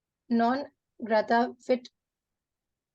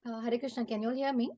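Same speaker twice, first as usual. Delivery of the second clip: barely audible; 7 dB quieter, faster than usual. Real, not acted. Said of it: "a bit better now".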